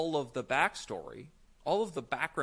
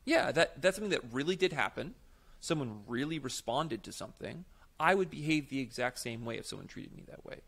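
audience member voice; 3 semitones higher than usual. Retold or imitated. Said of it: "the audience is gonna go".

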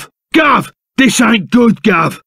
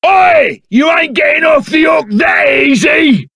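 indignant shout; 8 semitones higher than usual. Acted. Shouting at someone who tries to run off, high indignant yell. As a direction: yell to stop them getting away.

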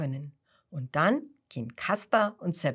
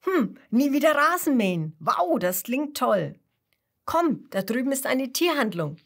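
higher, louder, with an enthusiastic wow; excited Seppel, pitched up; thrilled; 7 semitones higher, 4 dB louder than usual. A narrator's reading. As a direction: Seppel delighted at never mowing again. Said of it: "Seppel ist begeistert".

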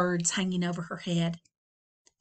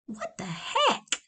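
puzzled what the heck; 10 semitones higher, slower than usual. Acted. Flora startled by noise.

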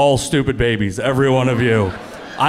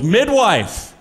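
mock heckler yell; 6 semitones higher than usual. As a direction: imitate a heckler calling out. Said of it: "a woman in the audience yelled out".

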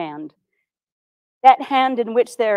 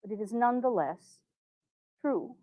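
hard to say; 11 dB quieter than usual. Acted. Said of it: "This is very hard to say".

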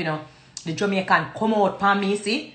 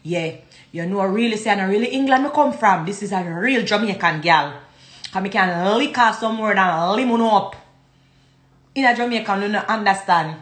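deep Jamaican patois at the usual pitch; Jamaican accent; 4 semitones lower than usual. Shown as a demonstration. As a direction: drop into thick Jamaican patois. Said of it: "go down in the Jamaican".

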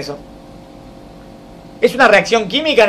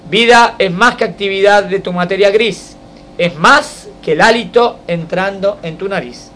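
measured, slow poetic recital; poem reading. Acted. Teacher reciting a poem to students, measured and slow. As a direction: read each line like a verse to the class.

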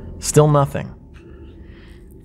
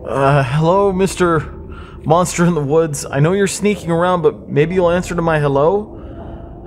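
teasing; 5 semitones higher than usual. Acted. Friends mocking the monster.

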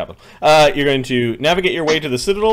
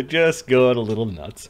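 ordinary talk

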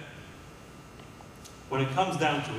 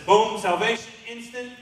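excited exclamation; 9 semitones higher, 7 dB louder than usual. Real, not acted. Preacher exclaiming.

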